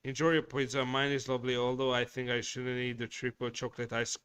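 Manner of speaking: normal talking voice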